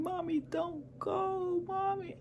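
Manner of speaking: put-on high, slow pleading child voice, lightly done; imitating crying kids. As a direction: mimic the kids begging mom not to go. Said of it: "The kids start screaming, crying".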